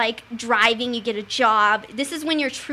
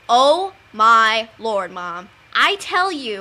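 drawn-out, very slow, louder groan of a plea; exasperated teen; 7 dB louder, much slower than usual. Retold or imitated. A teen groaning at her mom's questions, drawn out and very slow. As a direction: stretch the complaint out in exasperation. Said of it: "And I'd be like".

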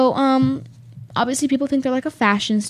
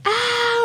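high yelp; 13 semitones higher than usual. Retold or imitated. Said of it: "everyone's always like".

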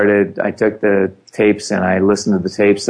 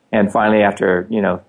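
normal talking voice

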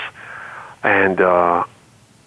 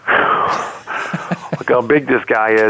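mock girls screaming; much slower than usual. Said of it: "two Floridian girls screaming".

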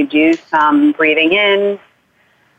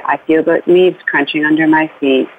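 guided bedtime journey; 2 semitones lower than usual. Shown as a demonstration. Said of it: "you say".

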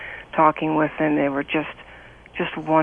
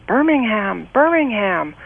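higher, louder mock call across a crowd; calling out the town name, imitating the soldier; retold yelling out; 5 semitones higher, 4 dB louder, slower than usual. Soldier shouting his hometown to the girls, mild mock yell. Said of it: "this guy kept screaming out".

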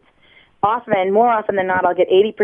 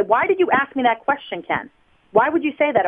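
raised angry voice; 6 semitones higher than usual. Shown as a demonstration. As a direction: demo of a defensive outburst, pitched much higher. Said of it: "all of a sudden I raise my voice and say".

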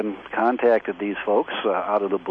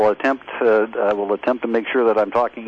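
talking louder; 5 dB louder than usual. Real, not acted. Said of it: "just keep shouting into the phone".

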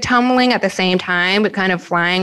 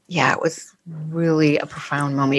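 awed whisper; 5 semitones lower, 5 dB quieter, faster than usual. Real, not acted. Awed reflection on moment.

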